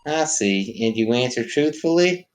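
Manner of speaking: slow, solemn prophet voice; Jesus figure voice. Acted. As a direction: intone like a holy savior. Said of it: "Jesus figure".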